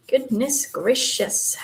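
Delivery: slow, drawn-out goodness gracious like a little Southern grandma; a sweet old-lady goodness gracious; Southern grandma exclaiming. Pretend. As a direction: stretch goodness gracious out slowly, grandma style. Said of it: "makes me sound like a little Southern grandma".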